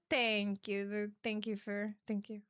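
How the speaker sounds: oddly intoned, trailing thank you. Real, not acted. Streamer thanking a mod in an odd tone. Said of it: "I don't know why I said it like that".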